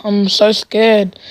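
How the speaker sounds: slow, drawn-out mock fear; mock scared. Taunting the bully who said shut up, mock scared. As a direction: feign being scared, dragging the words.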